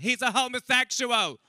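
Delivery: high, loud mock-mother outburst; loud blurted announcement. Mother answering his friends without missing a beat, loudly blurted. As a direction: proclaim it at full voice.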